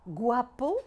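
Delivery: guapo with gua as one syllable; "guapo" said GWA-po, two syllables; diphthong. Shown as a demonstration. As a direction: glide u into a in guapo. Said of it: "la diphtongue oué".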